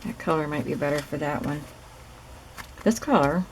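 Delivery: talking around a pin held in lips; pin in mouth. Real, not acted. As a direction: mouth partly closed on a pin. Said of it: "sorry, I have a pin in my mouth".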